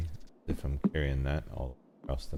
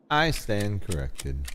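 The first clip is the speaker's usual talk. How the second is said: I stand corrected, said slowly and higher, stretched; slow, drawn-out; 4 semitones higher, slower than usual. Shown as a demonstration. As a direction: drag it out with mock gravity.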